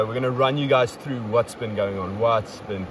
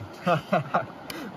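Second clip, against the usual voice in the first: short amused chuckle; breathy, voiceless chuckle; real laugh; 4 semitones higher, 4 dB quieter than usual. Real, not acted. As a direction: laugh lightly at a friend's joke. Laughing at the rock hopper joke.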